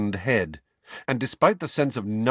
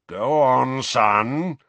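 loud, raised, blustering prompt; furious urging; 5 semitones higher, 6 dB louder, much slower than usual. A narrator's reading. Father pressing his son to continue, furious urging. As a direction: urge him on through mounting fury. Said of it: "moustache blowing about furiously".

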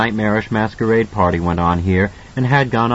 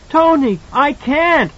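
put-on high, slow frightened child; fearful plea; 3 dB louder, slower than usual. A narrator's reading. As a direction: plead in fear. Child pleading in fear.

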